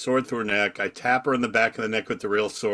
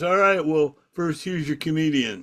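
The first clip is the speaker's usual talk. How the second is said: lightly voiced DJ, higher-pitched; local DJ; 4 semitones higher than usual. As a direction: toss off a half-hearted introduction as the DJ. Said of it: "The local D J goes".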